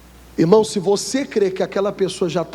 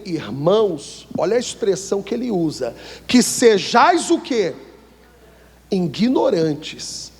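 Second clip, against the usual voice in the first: slow, weighty reading of the verse; preacher reading Paul slowly; solemn scripture reading; 2 semitones higher, slower than usual. Acted. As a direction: read the Bible text to the congregation. Reads scripture aloud.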